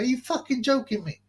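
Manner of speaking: high, disbelieving retort; incredulous. Retold or imitated. Retorting to a friend who thinks lawyers are safe, incredulous. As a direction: scoff at the idea in disbelief. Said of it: "I go".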